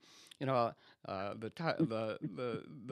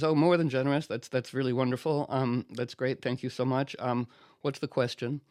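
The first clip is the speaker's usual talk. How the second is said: louder, over-eager thanks; mock gushing gratitude; 5 dB louder than usual. Arthur thanking his enemy, mock gushing and loud. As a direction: gush with relief at the reprieve.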